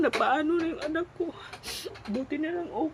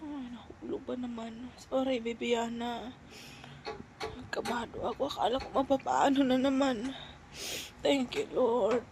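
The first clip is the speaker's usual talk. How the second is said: after crying; 7 dB quieter than usual. Real, not acted. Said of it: "Hindi na naman titigil kakaiyak to".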